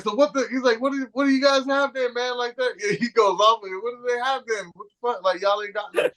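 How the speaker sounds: high, exasperated mock rant; imitating angry brother. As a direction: vent like a fed-up customer who can't get anything. Brother venting about menu.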